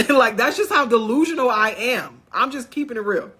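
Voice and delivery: loud laugh through the words; laughing at herself. Real, not acted. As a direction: laugh off her own confidence. Laughing at own delusion.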